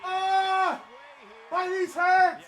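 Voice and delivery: high, pained cry of sympathy; sympathy wince. Real, not acted. Picturing the dislocated knee, crying out in sympathetic pain. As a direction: yelp as if your own knees ache. Wincing at the knee injury story.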